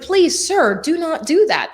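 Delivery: a hint of high, urgent courtesy; pleading flight attendant. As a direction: implore politely but firmly, a little high. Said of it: "the flight attendant is like".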